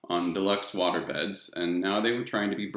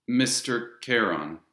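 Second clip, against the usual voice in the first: "Mister" slightly stressed and higher; 3 semitones higher, slower than usual. Shown as a demonstration. Boy repeating the title as told, stressing Mister. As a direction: lean on "Mister" dutifully. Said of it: "Now, Mister Charon".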